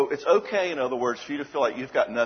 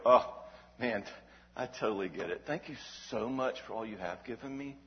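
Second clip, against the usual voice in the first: humble gratitude. Retold or imitated. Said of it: "a humble, depressed person, if you can't give to them, is gonna go".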